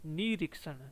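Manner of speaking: निरीक्षण with a falling tune, the री stretched; model word. Shown as a demonstration. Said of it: "बड़ी ई की मात्रा है निरीक्षण में". (निरीक्षण, री को लंबा खींचकर)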